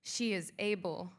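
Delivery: slow, measured poem reading. Acted. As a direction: read the poem honoring her sisters. Reads own poem.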